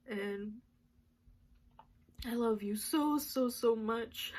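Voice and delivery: slow, whispered through tears; slow, tearful I love you; crying. Real, not acted. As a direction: drag out each so, choked up. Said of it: "I didn't even think I was gonna cry that much".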